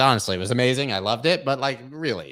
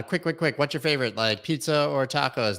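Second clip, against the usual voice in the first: higher, eager quiz-host pitch; rapid-fire quiz host; 5 semitones higher than usual. Retold or imitated. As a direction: fire the question at a stranger. Imitating street comedian's quiz.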